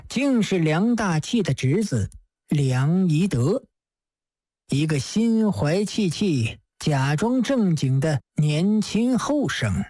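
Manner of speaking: 沉稳低声的狄公; Judge Dee. Acted. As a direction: speak as a shrewd old judge, amused. Judge Dee voiced by narrator.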